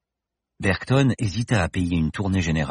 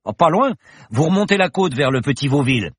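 bar regular's voice; 8 semitones higher, 5 dB louder than usual. Acted. Bar regular gives directions.

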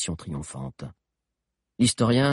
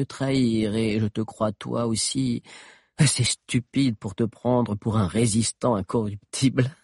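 cruel witch; 4 semitones higher than usual. Acted. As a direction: savour the threat. Witch threatening. (menace cruelle qui s'éteint lentement)

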